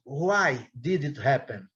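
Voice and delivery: each word slow and clear for the class; slow model question. Shown as a demonstration. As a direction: read the example slowly, like a teacher. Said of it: "Quando eu pergunto". (pergunta lenta e clara de professor)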